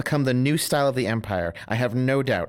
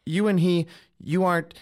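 startled; 6 semitones higher, 4 dB louder than usual. Acted. Husband startled by wife's remark.

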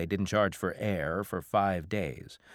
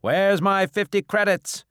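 high, loud demand for payment; bellowing; 13 semitones higher, 10 dB louder than usual. Acted. Bar owner dunning the captain, angry bellow. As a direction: holler for what you are owed. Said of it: "Kolu bellowed from behind the bar".

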